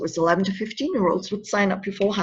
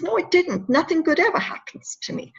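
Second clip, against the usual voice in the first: higher-pitched, mildly dejected protest; retold protest; 8 semitones higher than usual. Troubled boy refusing woman's comfort, mild glum protest. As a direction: voice a boy's glum denial, pitched up.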